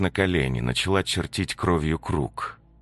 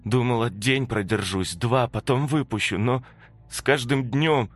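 higher, halting guilty voice; ghost's confession; 9 semitones higher, 3 dB louder than usual. Acted. The ghost Antonina confesses why she never opened the door, halting and guilty.

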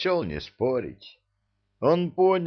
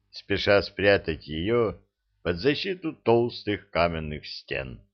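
usual speaking voice

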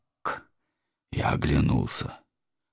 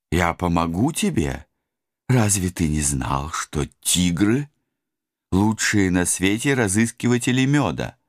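excited Tigger voice; 4 semitones higher than usual. Acted. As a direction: whoop it out like Tigger. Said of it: "продолжала надрываться великолепная вамп". (восторженный голосок Тигры)

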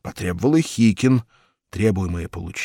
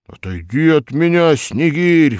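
higher and louder bellow; roaring Hikin; 7 semitones higher, 9 dB louder than usual. A narrator's reading. Hikin roars at the policeman in his sleep, loud. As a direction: roar at the policeman. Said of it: "взревел во сне Хикин".

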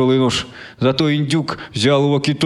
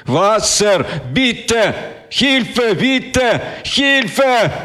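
desperate cries for help; 9 semitones higher, much slower than usual. A narrator's reading. Dying soldier begs for help.

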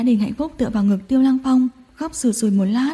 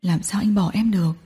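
patient reassurance; 3 semitones lower, 4 dB quieter than usual. Acted. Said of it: "kiên nhẫn an ủi".

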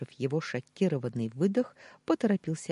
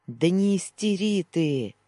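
loud, slow, higher snap back; snapped; 5 semitones higher, 6 dB louder than usual. A narrator's reading. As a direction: snap back at the panicking friend. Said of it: "огрызнулся Даниил".

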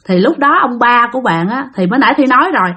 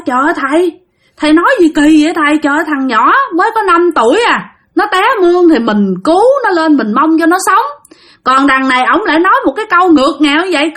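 higher-pitched retold reproach; mildly outraged, taking the master to task; indignant protest; 4 semitones higher than usual. Villagers reproach the master over the fallen child, indignant. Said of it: "ông bà ngoại rất là tức giận".

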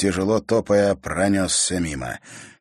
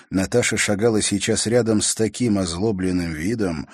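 ordinary delivery, nothing marked

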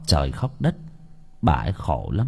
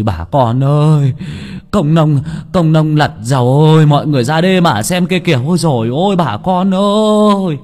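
high, loud frantic cry for help from the village; panicked shouting; 7 semitones higher, 7 dB louder than usual. Acted. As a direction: yell the alarm across the field, voice climbing higher. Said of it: "miệng hô to tất tưởi".

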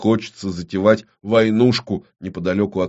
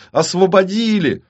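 высокий восторженный возглас; ликует во весь голос; радостный крик; 12 semitones higher, 5 dB louder than usual. Acted. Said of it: "радостно закричала Марси".

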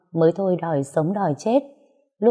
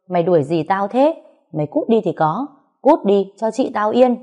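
angry retort. Acted. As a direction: fire it back at him with contempt. Narrator shouts back in quarrel.

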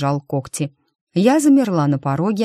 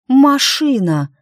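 higher, louder, slowed alarmed cry; alarmed shout; 8 semitones higher, 5 dB louder, slower than usual. A narrator's reading. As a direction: cry it out at the sudden sight. Героиня вдруг замечает машину. (встревоженный громкий возглас)

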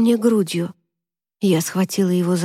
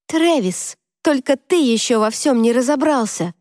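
angry retort; 4 semitones higher than usual. Acted. Angry quarrel in the car.

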